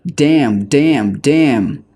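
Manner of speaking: frustrated baker kicking her oven, furious shouting; exploding curse. A narrator's reading. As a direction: blow up at the oven, each Damn hurled out. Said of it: "she exploded".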